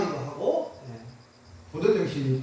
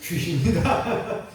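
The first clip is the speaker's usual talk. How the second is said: laughing ghost cry; 3 dB louder, much slower than usual. Acted. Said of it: "우리나라식으로 표현하면".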